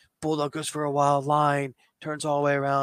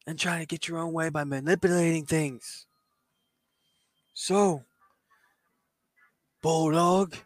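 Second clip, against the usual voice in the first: lightly voiced upbeat wrestler on the mic; 4 semitones higher than usual. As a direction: coax and lecture the opponent, lilting. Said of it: "has the mic in his hand, goes".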